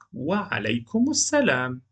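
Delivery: Khadija answering, lightly voiced; a gentle reply in the textbook dialogue; voiced dialogue line. Recorded dialogue, female voice.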